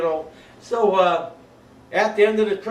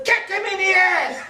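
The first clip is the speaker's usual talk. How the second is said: high, laughing command; urging shout; 13 semitones higher, 4 dB louder than usual. Retold or imitated. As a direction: egg him on, half laughing. Sergeant urging rough treatment.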